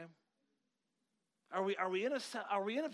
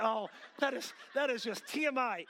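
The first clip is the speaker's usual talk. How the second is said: loud, higher mock protest; mock disgust; 5 semitones higher, 4 dB louder than usual. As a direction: imitate an appalled listener. Mimics listeners objecting to bathroom talk.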